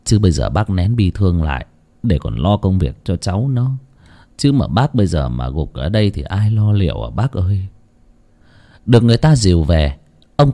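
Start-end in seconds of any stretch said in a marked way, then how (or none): 0.0-7.7 lower, softer gentle pleading; consoling. Acted. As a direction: coax the grieving father to hold on. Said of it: "Một người tiến lên an ủi".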